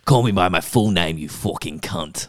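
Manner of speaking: mock regal insult; lightly voiced Queen, swearing. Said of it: "my Queen voice".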